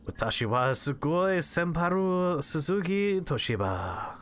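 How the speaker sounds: slow fake Japanese-sounding voice; hammed-up anime gibberish; mock anime voice. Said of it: "saying a bunch of Japanese brand names".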